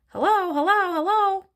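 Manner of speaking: high, loud parrot call; talking parrot. A narrator's reading. Parrot suddenly speaks to the waiting children, parrot voice. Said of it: "Suddenly the parrot said".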